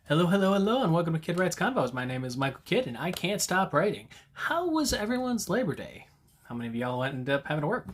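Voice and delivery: bright, rushed customer service voice; rushed scripted telemarketer. Acted. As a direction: greet them like a call-centre rep reading a script. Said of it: "my telemarketer voice again".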